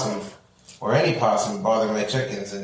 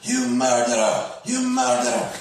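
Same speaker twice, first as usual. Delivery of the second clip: mock yell; 6 semitones higher than usual. Yelling at possum while chasing.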